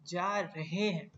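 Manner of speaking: "जा रहे हैं" with every syllable separate; full careful form. Shown as a demonstration. Teacher showing what we don't usually say, "रहे हैं" fully articulated. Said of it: "हम रहे हैं तो नहीं बोलते ना".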